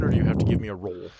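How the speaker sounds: ordinary talk, nothing marked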